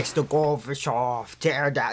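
slightly slowed presidential impression; a hint of a speechmaking president; lightly voiced Ronald Reagan. Co-host attempting a famous speech, lightly voiced president. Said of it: "doesn't sound like Ronald Reagan".

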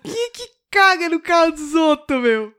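high, loud mock outrage; muito bravo. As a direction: rant like the furious driver, imitated. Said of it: "Ele fica muito bravo". (imitando o motorista bravo, alto e agudo)

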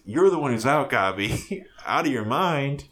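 hammed-up hero's retort; lightly mock a movie one-liner, stretching the ending; Spider-Man. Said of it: "And he says".

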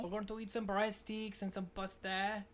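mock French accent on an Italian restaurant line; fake French accent. Teasing friend announces dinner in a mock French accent. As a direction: ham up a French accent, lightly. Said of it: "an Italian restaurant with a French accent".

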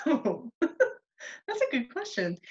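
slow, laughing through the words; amused, caught off guard laugh. Real, not acted. Laughs at the question.

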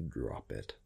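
a low threat that needs no volume; John ordering the woman to drop her sword, quietly menacing; cold command. A narrator's reading.

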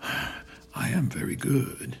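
sigh, then say it slowly and softly; moved. Acted. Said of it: "Trump, moved".

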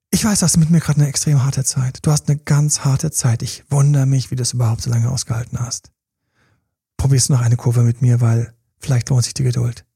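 understated, understanding plea; empathetic. Acted. Coach models words to a struggling partner, empathetic. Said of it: "Das wäre empathisch".

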